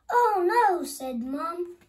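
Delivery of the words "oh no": shocked cry. A narrator's reading. Mum sees them on bed.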